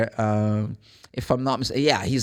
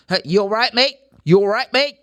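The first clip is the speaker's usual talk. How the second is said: British greeting; 7 semitones higher, 6 dB louder than usual. Shown as a demonstration. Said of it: "They normally go to say".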